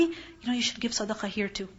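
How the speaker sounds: softly, as a discreet word; private aside. Acted. Privately advising a friend to give charity, a soft private aside. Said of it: "privately, you tell somebody".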